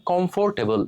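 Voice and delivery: কমফোর্টেবল with a full "for", "kom-for-te-bol"; common mispronunciation. Shown as a demonstration. Teacher showing how we say this word, mispronounced. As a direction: sound every syllable of কমফোর্টেবল. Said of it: "এই শব্দের উচ্চারণটা আমরা করি".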